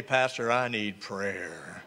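low, slow, hushed plea for help; worried church member begging the pastor, hushed; mock plea. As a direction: sound like a worried caller begging softly. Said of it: "you'd be calling me".

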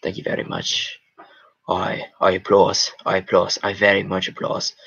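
measured, lightly affected announcer voice; golf voice. Shown as a demonstration. Streamer trying out a golf voice for a viewer, measured. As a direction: put on a restrained golf commentator. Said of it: "If this is a golf voice".

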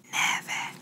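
whispered single word for a hearing test. Pretend. Doctor testing a patient's hearing with one word, whispered. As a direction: whisper it close into the ear. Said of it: "I'm going to whisper in this ear".

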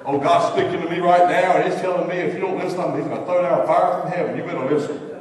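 loud, preachy mock warning; mock thundering prophet. Mocking a pushy believer, loud preachy warning. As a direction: ham up a fire-and-brimstone threat. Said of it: "don't go out and say".

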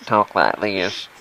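low, slow mock American; put-on American accent. Gamer offering his own accent to friend, slow mock American. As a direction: draw out a parody American. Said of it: "I'm gonna do American accent".

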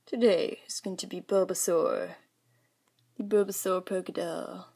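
slurred, talking funny; drowsy, slightly slurred speech; groggy from anesthesia. Real, not acted. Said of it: "Sorry, I'm talking all funny".

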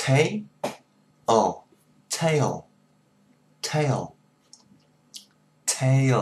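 "Tail" repeated with a two-beat glide; "Tail" said again and again, clearly; "Tail" as a firm pronunciation drill. Shown as a demonstration. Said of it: "Hai tiếng".

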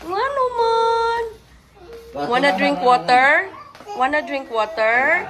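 put-on high sing-song voice to a baby; baby talk. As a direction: coo at the little one, slowly. Talking to a baby. (malumo nga tingog sa bata)

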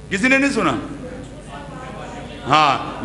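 normal talking voice

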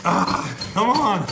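loud frustrated groan; exasperated, door won't budge. Real, not acted. Door stuck on plush.

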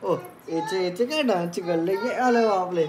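lisping cutesy dance cheer. Real, not acted. Baby talk cheering child to dance.

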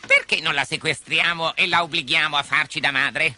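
lightly voiced sidekick making a suggestion; pirate henchman. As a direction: put the idea to the captain. Henchman proposes a kidnapping.

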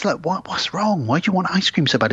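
puzzled prodding; wife asking why he craves ice cream; wife questioning. Retold or imitated. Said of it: "his wife says".

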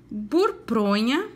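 "burpronha" said slowly, every sound clear; slow, careful word. Shown as a demonstration. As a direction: stretch "burpronha" out for children to copy. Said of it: "Caprichem na pronúncia".

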